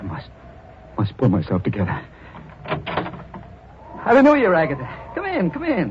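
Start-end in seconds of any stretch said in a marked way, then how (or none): 2.7-5.9 much higher, very slow sing-song welcome; creepy high crooning welcome; over-sweet greeting. Acted. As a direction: greet her with eerie, sugary delight. Madman greeting his victim.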